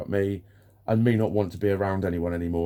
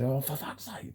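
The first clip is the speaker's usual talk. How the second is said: exasperated reaction; 6 semitones higher, 7 dB quieter than usual. Retold or imitated. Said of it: "I just reacted".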